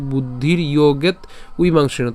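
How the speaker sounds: "ইয়োগেত" closed on a t, then a gap before "উইমাংসিনু"; split for ease. Shown as a demonstration. Teacher repeating the helper split, "ইয়োগেত" ending in t. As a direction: attach the t to "ইয়োগেত", then start afresh on "উইমাংসিনু". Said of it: "তবে এভাবে উচ্চারণ না করে".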